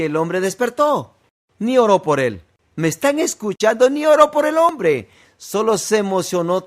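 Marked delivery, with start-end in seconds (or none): 1.6-5.1 higher and louder, pressing the point; fiery preacher emphasis; emphatic preaching. Real, not acted. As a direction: drive it home to the congregation. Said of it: "preacher emphasizing".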